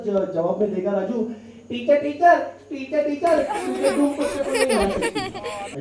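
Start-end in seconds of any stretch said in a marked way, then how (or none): 1.7-5.8 put-on high, eager little-boy voice; child voice. Schoolboy Raju answering teacher, high and eager. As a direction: pipe up like an excited schoolkid.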